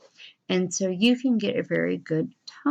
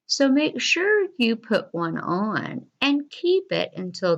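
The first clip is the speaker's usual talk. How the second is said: poem reading. Acted. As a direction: read it aloud to children, pausing at the punctuation. Reads poem to students.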